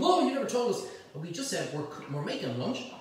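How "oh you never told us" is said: higher, louder whiny viewer voice; mock complaining viewer. Mimicking viewers who say they weren't told, mock whine. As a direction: play the grumbling audience member. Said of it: "in case anybody's going".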